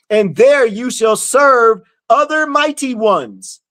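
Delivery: slow, forceful verse reading; scripture reading. Acted. Teacher warning followers from scripture, forceful slow reading. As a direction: proclaim the verse in long, weighted phrases.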